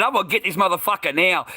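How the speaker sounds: high-pitched reenacted yell; retold yell. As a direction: replay the angry threat with force. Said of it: "I said, I yelled it".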